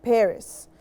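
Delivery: Paris as "PAIR-iss"; English pronunciation. Shown as a demonstration. Teacher repeating for learners, Paris as front-stressed "PAIR-iss". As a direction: stress the first syllable of Paris. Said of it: "we say Paris".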